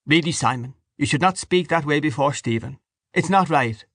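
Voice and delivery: high, pained reproach; reproving wife character. Acted.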